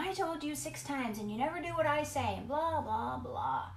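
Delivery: mock nagging parent. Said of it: "we're not yelling".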